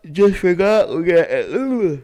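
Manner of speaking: high, slow announcer voice; radio DJ voice. Pretend. Continues radio DJ bit.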